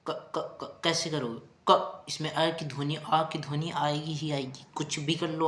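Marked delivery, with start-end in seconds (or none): 0.1-0.8 क whispered as a bare sound with no vowel; whispered demo. Shown as a demonstration. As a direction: try to say क without any vowel, whispering it. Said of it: "इसका उच्चारण करके दिखा सकते हो आप।".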